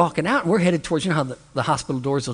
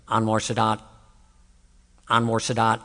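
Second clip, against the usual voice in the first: low, dazed repetition of the name; a lightly voiced confused man chanting; imitating a patient on the gurney; 5 semitones lower than usual. Preacher imitating a troubled man on a gurney, lower dazed chant. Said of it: "This is exactly what he was doing".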